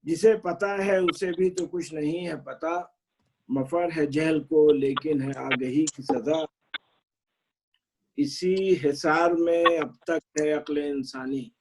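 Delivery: measured, drawn-out verse recital; poetry recitation. Acted. Poet reciting his qata to appreciative friends, measured recitation. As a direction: recite each half-line slowly, pausing between phrases.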